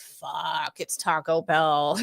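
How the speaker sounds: drawn-out, slow grumble; slow mock dismay, stretched out; mock disgruntled kid. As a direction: imitate a fed-up teen, dragging the words. Jaded kids' reaction, retold.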